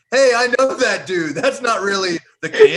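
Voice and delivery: high, loud audience heckle; heckling shout. Retold or imitated. Mock theatregoer objecting that play isn't real, loud heckle. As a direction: yell at the stage, calling out the actor.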